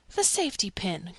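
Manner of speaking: ordinary delivery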